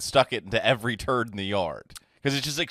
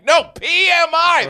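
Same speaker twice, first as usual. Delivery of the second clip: very high mock yell; high-pitched, hammed-up outburst; mock screaming; 13 semitones higher, 4 dB louder than usual. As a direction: imitate someone screaming in a bank. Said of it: "It's just you screaming in a bank".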